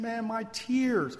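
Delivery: acted crying, no real sobs. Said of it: "He's crying".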